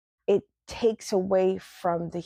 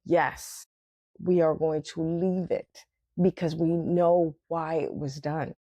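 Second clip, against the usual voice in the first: calm inner reply; 3 semitones lower than usual. Retold or imitated. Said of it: "just sitting there going".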